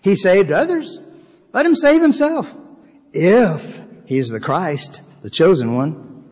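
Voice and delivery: high, mocking sneer at the end; sneering ruler. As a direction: scoff like a smug ruler taunting a dying man. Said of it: "The ruler sneered at him".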